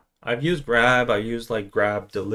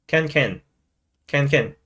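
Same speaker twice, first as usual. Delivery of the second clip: short doubled Singlish yes, falling; lightly imitated Singlish affirmation; 2 semitones higher than usual. Shown as a demonstration. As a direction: agree in curt Singlish. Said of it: "Singlish is complete with one word".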